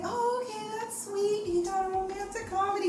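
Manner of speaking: mock pleased. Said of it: "And I was like".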